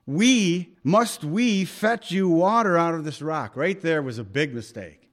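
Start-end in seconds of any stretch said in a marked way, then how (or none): 0.1-3.5 loud, raised voice claiming the miracle; Moses boasting angrily. Retold or imitated. Moses shouting at the complaining people, loud and raised. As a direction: demand it, taking credit. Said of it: "he wasn't supposed to say that".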